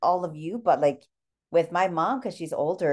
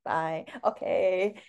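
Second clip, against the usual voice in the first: flustered mom; 4 dB quieter, much slower than usual. Retold or imitated. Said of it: "she'd be like".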